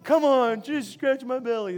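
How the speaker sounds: goofy talking-dog voice; Cooper. Acted. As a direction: plead like a goofy dog wanting a belly rub. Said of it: "that's my Cooper voice".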